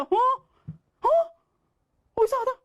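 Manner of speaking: high, startled puzzled voice; confused just-woken gasp; mock bewildered wake-up; retold surprise. Waking up confused.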